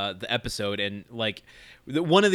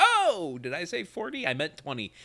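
feigned sudden realization; 5 semitones higher than usual. Retold or imitated. Senator quickly changes his price.

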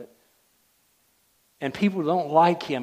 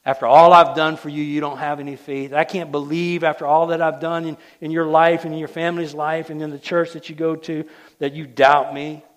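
louder, exasperated mock scolding; mock disappointed God; 6 dB louder than usual. Preacher imitating a resentful God to doubters, a mock scolding. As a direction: play a fed-up God, half-joking. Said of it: "He's not looking at you and saying".

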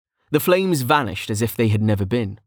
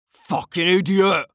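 slow, raised-pitch insult; angry shout; 9 semitones higher than usual. A narrator's reading. Officer insulting the mage who hit him, angry shout. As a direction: spit the insult out slowly and high. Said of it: "the officer shouted".

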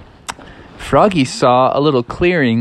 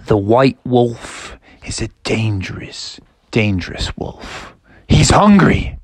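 ominous dad; 3 semitones lower than usual. Acted. Dad warns Froggy about White Wolf, ominous. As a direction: spell out the danger with weighty pauses. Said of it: "Froggy's dad was like".

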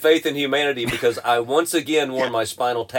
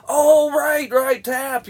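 higher, offhand oh right Tap; mocking friend; 12 semitones higher, much slower than usual. Teller imitating a friend noticing the shirt late, higher mock voice. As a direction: toss it off like a belated shrug. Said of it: "one guy's like".

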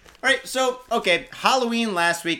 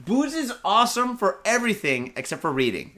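laughing; 4 semitones higher than usual. Real, not acted. Laughs about drunk reading.

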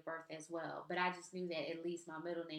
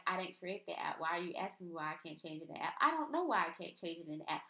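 exasperated inner rant; faster than usual. Retold or imitated. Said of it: "the thoughts that went through my mind".

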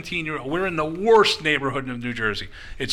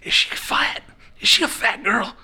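imitated nosy questioning that climbs higher each time; Tommy Rich; 8 semitones higher than usual. Tommy Rich pestering the waiter, building excited imitation. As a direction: start breathy, build to a high-pitched mock demand. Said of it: "He goes".

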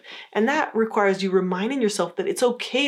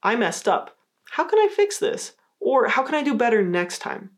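positive, assertive; 4 semitones higher than usual. Shown as a demonstration. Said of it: "to be more positive, you could say something like".

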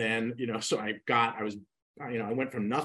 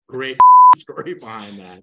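laughing; 4 semitones higher, 23 dB louder than usual. Real, not acted.

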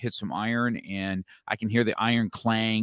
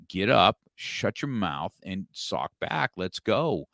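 tough-love pep talk; slower than usual. Retold or imitated. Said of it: "And I said".

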